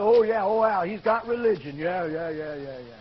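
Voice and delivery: mock knowing "oh yeah", trailing downward; skeptical dismissal. Coworkers doubting his conversion, dismissive. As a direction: brush it off, letting the yeahs sink away.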